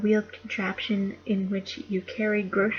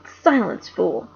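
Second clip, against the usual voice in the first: witch's angry command; 8 dB louder, slower than usual. Acted. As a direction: cut the boy off like a cruel queen. Witch snaps at Edmund.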